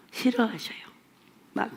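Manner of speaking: whispered warning. Real, not acted. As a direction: breathe it out as a hush. Hushed warning about the Lord. (속삭이며 경고하듯)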